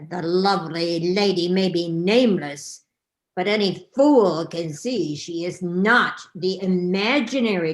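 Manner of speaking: loud, pompous king voice; blustering king. Acted. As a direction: proclaim it like a bossy king. King Claude voiced in story.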